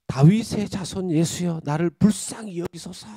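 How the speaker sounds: loud, high pleading shout; desperate cry. Retold or imitated. Blind beggar shouting to Jesus in the crowd, desperate loud plea. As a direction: cry out to be heard over a crowd. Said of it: "막 소리를 지릅니다".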